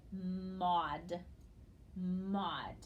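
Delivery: "maud" with an ah vowel; "maud" said alone, first rising, then falling; sounded-out syllable. Shown as a demonstration. Teacher pronounces this part of the word, "maud" as a separate syllable. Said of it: "we would pronounce this part".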